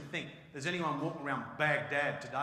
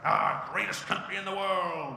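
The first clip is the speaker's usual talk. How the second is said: mock American accent; 3 semitones higher, 7 dB louder, slower than usual. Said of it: "Americans like".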